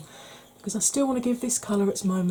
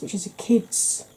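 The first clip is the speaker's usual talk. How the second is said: ASMR whisper; 5 dB louder than usual. Real, not acted. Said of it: "a little bit of A S M R for you".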